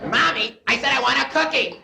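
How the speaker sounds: mock tantrum aimed at mommy; kid yelling for cookie.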